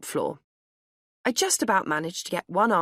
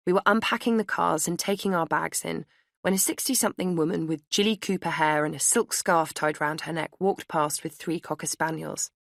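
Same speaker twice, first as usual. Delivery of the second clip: ordinary delivery, nothing marked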